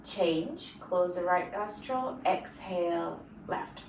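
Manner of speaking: measured breathing instruction with long pauses; guided breathing cues. Acted. Yoga teacher leading students through nostril breathing, guided breathing cues. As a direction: pace each cue to the breath.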